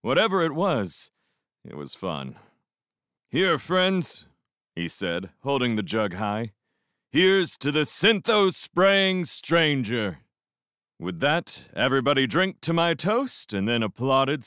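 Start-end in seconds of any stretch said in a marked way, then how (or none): 3.3-4.3 higher-pitched call to the group; hearty toast. A narrator's reading. Leader calls friends to a toast with the jug held high, hearty. 7.1-10.2 slow, high-pitched proclamation; proclaimed toast. A narrator's reading. Leader toasts the narrator who sprayed his drink, proclaiming.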